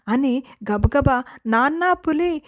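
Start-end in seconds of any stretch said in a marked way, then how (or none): 1.5-2.4 scared call for help. Acted. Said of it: "అరుస్తున్నాడట".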